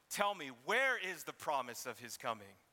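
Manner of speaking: mocking, scornful question; sarcastic jab, not really asking. Shown as a demonstration. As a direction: sneer the question like a scoffer. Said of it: "Or you can ask it in the other tone".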